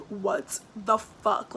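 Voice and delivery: very slow, drawn-out disbelieving swear; stunned disbelief. Retold or imitated. Seeing bags of trash strewn everywhere, slow stunned curse. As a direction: stretch every word in shock. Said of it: "I literally was like".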